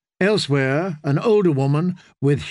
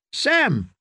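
ringing call; 9 semitones higher than usual. A narrator's reading. Singer hails his friend across the room, ringing high call. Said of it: "Darian's familiar voice rang out".

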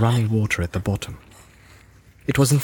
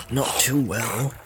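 Sam voice; 3 dB quieter, slower than usual. Acted. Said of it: "thought Sam".

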